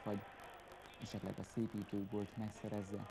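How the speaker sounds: normal talking voice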